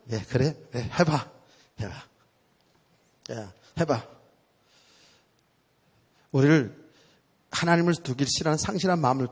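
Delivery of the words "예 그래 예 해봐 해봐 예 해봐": resigned permission. Retold or imitated. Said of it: "그러면 하나님은".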